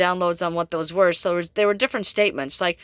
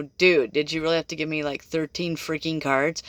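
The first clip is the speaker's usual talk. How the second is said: exasperated aside; 5 semitones lower, 4 dB quieter than usual. Retold or imitated. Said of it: "I said that kind of out loud".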